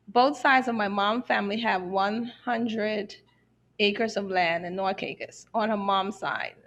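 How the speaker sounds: measured read-out of a question; careful slow reading. Real, not acted. Host reading a lengthy listener question, carefully. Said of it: "I'll try to read it slowly".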